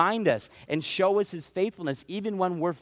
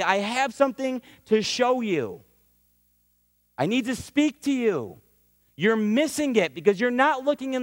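higher, firm, urgent divine summons; God calling Abram; 5 semitones higher than usual. Acted. Higher urgent voice as God calls Abram apart. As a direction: call him aside, insistent and earnest.

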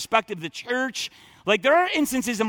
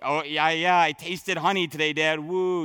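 a hint of a cocky, careless son; lightly mock his casual brag; flippant son; 4 semitones lower than usual. Preacher mocking a son bragging to his dad, careless. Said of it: "he's saying it like".

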